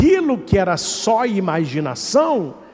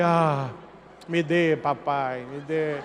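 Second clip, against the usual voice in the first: mock seductive plea; 4 semitones lower, 7 dB quieter, slower than usual. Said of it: "E ele".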